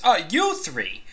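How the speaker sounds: high, sputtering complaint; indignant bartender. Acted. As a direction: pitch up to whine about the unfair treatment. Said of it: "and he says".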